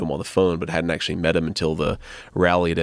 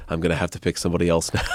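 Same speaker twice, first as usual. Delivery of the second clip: quick, breaking into laughter; laughing through the line; faster than usual. Retold or imitated. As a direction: rush it out while cracking up. Retelling Trump's joke, laughing.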